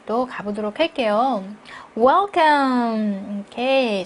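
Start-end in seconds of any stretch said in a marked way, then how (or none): 2.0-3.4 "Welcome" hit firmly, then a beat; emphasis then pause. Shown as a demonstration. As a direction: stretch "Welcome" and stop after it. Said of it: "강조하면서 한번 쉬는 거죠". ("Welcome"을 강조하고 한 박자 쉬기)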